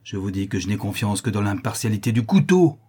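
simmering rage bursting on the last word; contained fury, then an outburst; mad fury. Acted. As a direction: build to a furious final cry. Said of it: "dans un redoublement de folle fureur".

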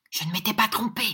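half-whispered murmur to himself; hushed aside with little voice in it. A narrator's reading. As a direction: murmur it under the breath, tensely. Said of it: "murmura Nicolas".

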